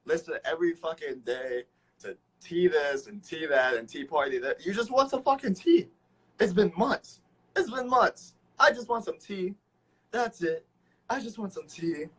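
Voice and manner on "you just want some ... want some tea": high-pitched, hammed-up begging; mock pleading. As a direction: plead in a put-on high voice, as if deprived. Mock pleading for some tea.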